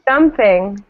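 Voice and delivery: "Jumping" with the first syllable punched; teacher's emphatic "Jumping", stressed at the front; stress at the beginning. Shown as a demonstration. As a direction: hit "Jump" firmly and keep "ing" weaker. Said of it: "Beginning, right?".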